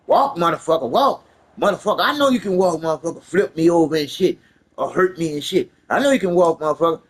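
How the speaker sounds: mock cop shouting at a wheelchair user; retold cop yelling. Cop yelling at paralyzed man, loud barked orders.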